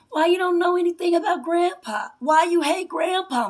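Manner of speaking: real anger, voice pushed up and loud; angry confrontation. Real, not acted. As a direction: demand it of her mother, loud. Angrily confronting her mother.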